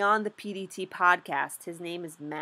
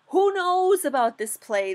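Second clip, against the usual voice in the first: excited rhetorical call; 9 semitones higher, 7 dB louder than usual. Real, not acted. Rhetorical outburst about the trade.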